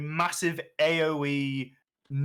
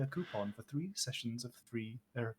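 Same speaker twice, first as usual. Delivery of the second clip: laughing; 2 semitones lower, 11 dB quieter than usual. Real, not acted. Reading while laughing.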